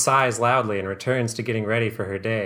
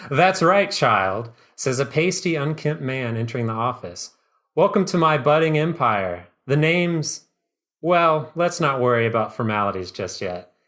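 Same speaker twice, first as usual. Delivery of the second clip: smarmy businessman; 2 semitones higher than usual. Acted. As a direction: play a slick, awkward huckster. Pasty villain introduces himself.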